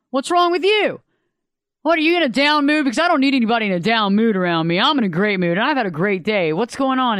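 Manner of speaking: mock partner snapping at her when she comes in meek; snappy moody partner. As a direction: fire questions at her, brushing her off.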